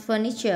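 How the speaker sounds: "furniture" stressed on the first syllable. Shown as a demonstration. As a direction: put the weight on the start of "furniture". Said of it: "âm một".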